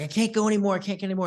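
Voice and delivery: lightly acted plea of someone who can't go on; straining player's plea. Sales coach retelling a film's blindfolded player, straining plea.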